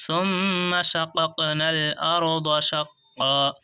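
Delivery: slow, drawn-out melodic tilawat; Quran recitation. Shown as a demonstration. Teacher reciting the verse to students in slow tilawat. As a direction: chant the verse slowly for the class.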